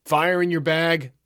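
passed-on call. A narrator's reading. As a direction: relay the call down a queue, slowly. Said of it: "the call spread down the line".

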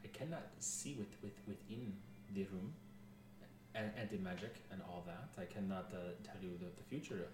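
put-on halting French-accented advisor; softly French-accented character voice. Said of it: "I was doing a French accent".

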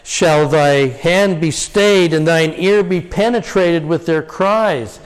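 slow, aching question to God; anguished plea. Shown as a demonstration. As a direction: plead slowly from a prison cell. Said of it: "Liberty Jail".

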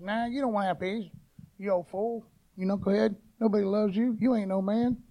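understated voice of the accuser; Satan's taunting voice. Acted. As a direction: taunt quietly, as the devil would. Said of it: "He'll try and".

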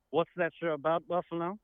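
the title said in a mock English accent; English accent, rising on that; softly voiced English accent. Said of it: "a special England guest".

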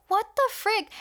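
disbelieving what-the; 1 baffled. Retold or imitated. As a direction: sound utterly thrown. Reacting to weird event.

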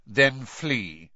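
a short, cold dismissal; curt. A narrator's reading. Snape brushing off a worried Karkaroff, curt. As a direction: cut him off curtly. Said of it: "said Snape's voice curtly".

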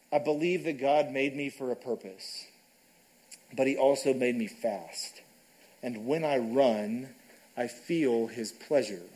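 calm and loving, slowing at the end. Retold or imitated. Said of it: "in a calm and loving voice".

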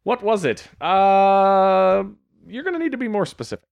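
high, quick cheeky defendant reply. Pretend. Defendant sassing the judge, high quick cheeky voice. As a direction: answer the judge like a smartass.

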